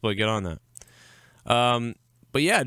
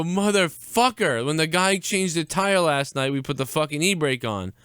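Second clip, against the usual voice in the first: angry outburst; 6 semitones higher than usual. Retold or imitated. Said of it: "I go".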